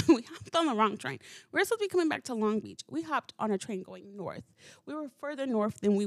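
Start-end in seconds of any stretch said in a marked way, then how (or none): 0.0-1.2 laughing through it, a bit louder. Real, not acted. Telling listeners about the wrong train, laughing. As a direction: chuckle at your own blunder as you repeat it. Retelling mishap, then repeats it laughing.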